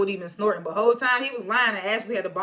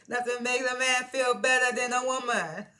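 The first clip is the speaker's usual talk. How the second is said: laughing; 4 semitones higher than usual. Real, not acted. Laughing after singing.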